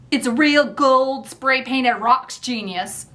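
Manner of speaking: slow, mean-sounding Philadelphia voice; mean Philadelphia accent. Acted. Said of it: "in a mean-sounding Philadelphia accent".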